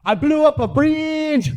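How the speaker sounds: very high, slow put-on mother voice; mom's accented voice. Mom phoning her son about work, high put-on voice. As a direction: announce it high and drawn out, like mom. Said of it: "my mom immediately goes".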